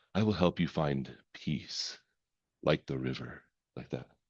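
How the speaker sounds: deep, husky murmur, very hushed and soft. Showing how to say a calming phrase, in a low, husky voice. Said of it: "You have to drop your voice really husky when you say it".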